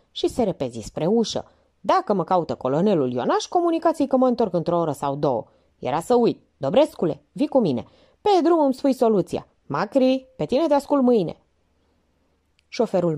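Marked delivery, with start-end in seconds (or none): 1.8-11.4 brisk, bossy commands, rising higher at the end; a chief barking out instructions on her way out; Minerva giving orders. Acted. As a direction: Minerva ordering Dobrescu along.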